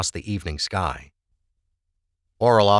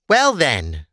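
flat tone; 6 semitones higher, 4 dB louder than usual. A narrator's reading. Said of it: "her tone barely changing".

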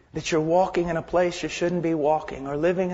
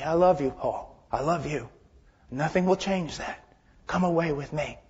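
tender divine plea. Acted. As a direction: plead gently, like a loving father. God's loving plea, voiced gently.

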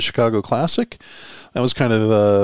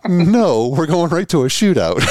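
high, mildly raised mock yell; imitated referee yell; 6 semitones higher than usual. Referee on the ice correcting the announcer, imitated yell. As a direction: call up to someone from a distance. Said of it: "the referee from the ice yells up to the announcer".

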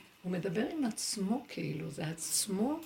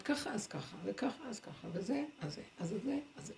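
resigned murmur; 9 dB quieter than usual. Retold or imitated. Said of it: "אני אומרת".

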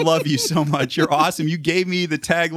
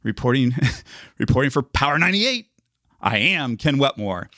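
punchy news sign-off. Shown as a demonstration. Radio reporter signs off a news report with a punchy tagline. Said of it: "so I start doing that".

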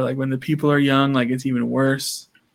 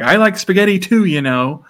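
higher, louder hurt protest; mock indignant; 5 semitones higher, 4 dB louder than usual. Feeney protesting as Eric walks off, mock indignant. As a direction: imitate someone feeling left out.

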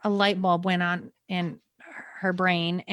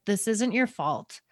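gentle reassurance. Retold or imitated. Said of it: "she leaned over to me and she said".

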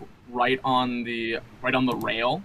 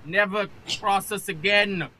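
put-on slow, high-pitched drunken captain's oration; loud rousing speech; 9 semitones higher, 4 dB louder, slower than usual. Drunk captain yelling at dock people, loud indignant speech. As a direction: proclaim it grandly and haltingly, pitched high. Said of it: "make my voice as loud as I possibly can".

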